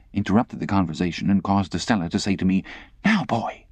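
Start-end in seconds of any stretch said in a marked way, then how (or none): 3.0-3.6 put-on haughty girl. Estella commanding.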